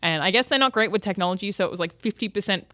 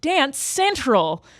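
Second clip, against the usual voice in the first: put-on American accent, pitched up; 6 semitones higher, 4 dB louder than usual. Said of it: "everyone would be like".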